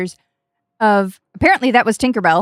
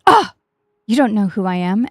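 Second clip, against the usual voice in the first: a touch of mock offence on "you don't know who I am"; lightly voiced haughty fairy, put out at being unknown; indignant Tinkerbell. Tinkerbell scolding a fan who did not recognize her, mildly indignant. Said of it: "Tinkerbell is yelling at me".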